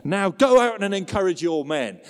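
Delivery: rising anger, loud peak on the rebuke; a preacher's mock-furious general scolding the king; angry rebuke, pushed hard in places; fuming Joab. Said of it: "This guy is fuming".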